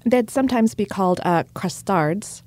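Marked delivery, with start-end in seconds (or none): 1.5-2.4 crustards said the French way, kroos-TARD; French-accented crustards, soft and slow. Real, not acted. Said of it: "Which I just pronounced with a French accent".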